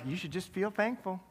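soft, put-on Southern accent. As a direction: lightly voice God with a Southern accent. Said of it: "have an accent like that".

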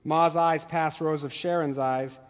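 measured read-aloud of a novel passage; story narration. Acted. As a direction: read it like a teacher sharing literature.

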